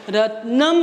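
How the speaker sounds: रत्नम with the final म held and an अ sound after it; ending sound demo. Shown as a demonstration. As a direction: let रत्नम end on a clear म with a trailing अ. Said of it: "पीछे से अ की ध्वनि सुनाई देती है". (रत्नम, अंत में म के बाद अ की ध्वनि)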